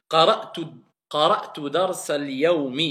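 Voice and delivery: قرأت درس اليوم linked into one phrase, darsal-yawmi; met verbinding. Shown as a demonstration. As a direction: run درس straight into اليوم without a break. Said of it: "Si je fais la liaison".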